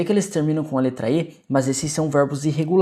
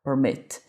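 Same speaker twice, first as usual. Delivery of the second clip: "permit" stressed on MIT; stress on last syllable; 3 semitones lower than usual. Shown as a demonstration. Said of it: "onde eu tenho o estresse da palavra".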